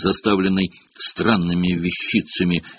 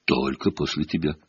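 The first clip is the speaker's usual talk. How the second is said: smiling; 7 semitones lower, 7 dB quieter than usual. A narrator's reading. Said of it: "улыбнулся Рон".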